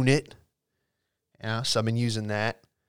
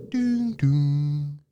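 chime imitation. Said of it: "plane chime".

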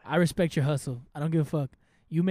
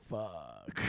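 muttered curse; 13 semitones lower, 13 dB quieter than usual. Retold or imitated. Retelling his own reaction.

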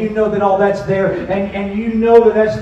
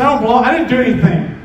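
higher, quick angry protest; retold anger; 6 semitones higher, faster than usual. Preacher retells detained boy's denial, mildly angry. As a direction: protest like an upset kid, quickly. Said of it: "He's so angry".

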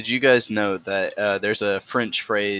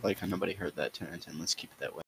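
fading away; 3 semitones lower, 13 dB quieter, faster than usual. Acted. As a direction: voice fading into near silence. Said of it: "Why are you getting quieter and quieter?".

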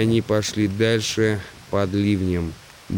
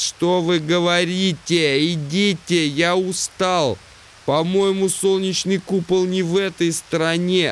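raised, high-pitched voice of a deafened man; 8 semitones higher than usual. Acted. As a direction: speak up over your own deafness. Deaf Simmons answering.

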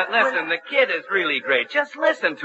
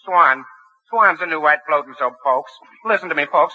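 a singer's recitation; 3 semitones lower than usual. Retold or imitated. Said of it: "do your recitation like Jolson".

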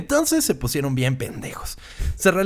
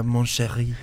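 put-on French accent; 4 semitones lower, 4 dB quieter, slower than usual. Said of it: "hablaba como con acento francés".

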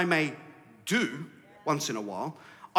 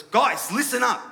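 calling for attention; 6 semitones higher, 5 dB louder, slower than usual. Acted. Paraphrases Jesus calling for attention.

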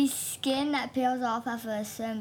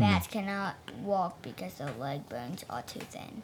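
flat, low mechanical reading; toy robot voice; 8 semitones lower than usual. Acted. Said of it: "I'm reading like this 'cause I am a robot".

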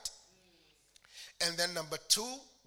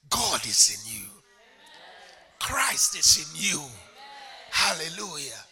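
proclaiming; 2 semitones lower, 8 dB louder than usual. Real, not acted. Preacher declaring God is within them, loud. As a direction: call it out to the hall.

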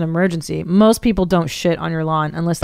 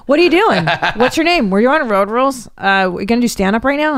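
sleazy pickup guy; 4 semitones higher than usual. Retold or imitated. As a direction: hit on her like a creep.

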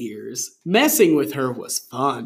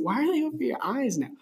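high, laughing mock outrage; 8 semitones higher, 3 dB louder than usual. Real, not acted. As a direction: laugh while scolding. Mock-indignant question to reader.

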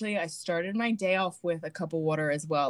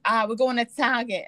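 put-on Boston accent; 5 semitones higher than usual. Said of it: "she's like".

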